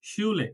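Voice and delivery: শুলে with an initial sh and long oo; careful German শুলে; German sch sound. Shown as a demonstration. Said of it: "স এর মতো উচ্চারণ হবে".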